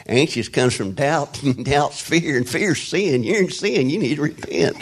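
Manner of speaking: a lightly voiced stern preacher scolding the anxious; imitating Bob. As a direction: poke fun at the old rebuke, laughing. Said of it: "And he said".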